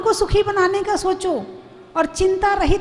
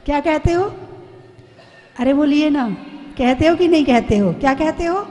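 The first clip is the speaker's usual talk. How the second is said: nagging wife; faster than usual. Retold or imitated. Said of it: "पत्नी चिल्ला रही थी।".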